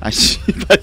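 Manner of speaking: loud annoyed swear; frustrated curse. Real, not acted. Frustrated at the game.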